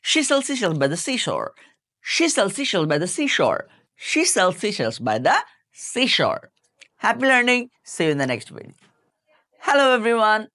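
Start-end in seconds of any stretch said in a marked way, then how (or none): 0.1-6.4 very slow, each sound careful; drawn-out model of She sells seashells by the seashore; slow tongue twister. Shown as a demonstration. English teacher modelling the tongue twister for learners, very slow. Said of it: "repeat করেন দ্রুত কয়েকবার".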